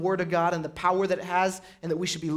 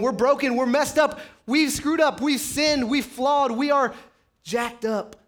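higher, louder, crying out in confession; impassioned confession; 5 semitones higher, 3 dB louder than usual. Retold or imitated. Preacher voicing sinners crying out, raised and louder. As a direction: pour out the brokenness.

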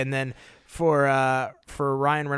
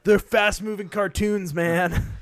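laughing; 3 semitones higher than usual. Retold or imitated. Repeating partner's line, laughing.

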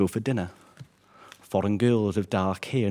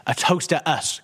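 higher, raised toast call; shout; 8 semitones higher than usual. Acted. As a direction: friend raising an empty glass and shouting a toast. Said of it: "Gareth will shout".

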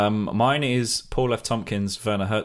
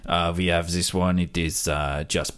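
deadpan mock French accent; halting French wine waiter; French sommelier. Jean-Claude offering a diner bleach and broken glass, French accent.

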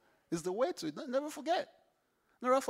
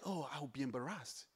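sheepish; 6 semitones lower, 12 dB quieter than usual. Pretend. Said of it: "you start to feel like".

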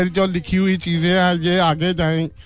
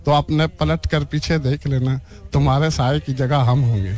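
poem recitation; 2 semitones lower than usual. Acted. Guest recites his poem.

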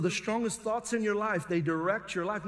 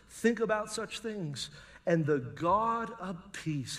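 scripture reading; 3 dB quieter than usual. Acted. Pastor reads verse eight.

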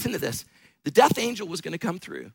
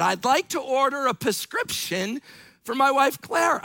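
mildly irritated repeat, pitched higher; raised voice with a touch of irritation; a little irritated; 4 semitones higher than usual. Retold or imitated. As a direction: imitate an impatient grandfather placing an order. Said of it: "said it louder and a little bit irritated".

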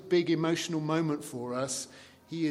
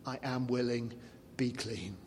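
softer, tender assurance; gentle Jesus; 3 semitones lower, 4 dB quieter than usual. Retold or imitated. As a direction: quietly grant the plea, kindly. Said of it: "let me kind of give you a sampling of how it feels".

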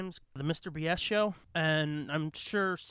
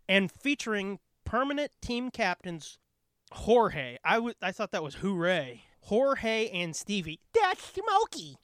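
cheesy announcer voice. Acted. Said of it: "cheesy announcer voice".

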